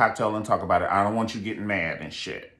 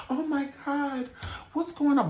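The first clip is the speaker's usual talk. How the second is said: mock fake surprise. Mocking the wife acting surprised by her party. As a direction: play dumb like you didn't know.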